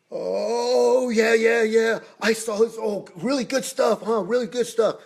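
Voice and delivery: high-pitched, gushing mock flattery; sucking up. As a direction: imitate a director kissing up to the star. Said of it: "he was just kissing ass".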